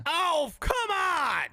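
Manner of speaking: high, slow whining complaint; whiny protest. Real, not acted. Protesting the co-host, high slow whine. Protesting about his balls.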